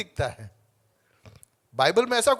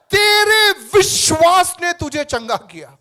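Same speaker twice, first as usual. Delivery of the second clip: voicing Jesus; 8 semitones higher, 9 dB louder, slower than usual.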